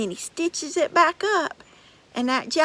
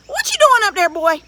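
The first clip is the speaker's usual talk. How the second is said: high, loud booming giant call; 5 semitones higher, 7 dB louder than usual. Acted. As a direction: holler up the tree as a big giant. Giant calls up to Jack.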